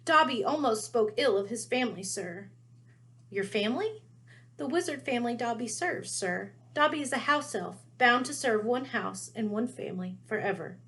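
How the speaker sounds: high, eager little elf voice; house elf voice. Acted. Dobby voiced by narrator.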